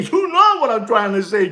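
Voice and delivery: laughing through the words; amused, laughing aloud. Real, not acted. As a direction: chuckle as you say it. Laughing at own joke.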